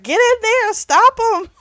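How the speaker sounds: high, loud retold order; frantic push to act; urgent command. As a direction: shout the order at him. Elle urging Harlan to intervene.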